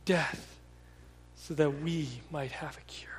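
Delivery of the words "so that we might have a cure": hushed whispered ending. Real, not acted. Preacher closing on the cure, whispered. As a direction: breathe it out as a whisper. Quiet close of sermon point.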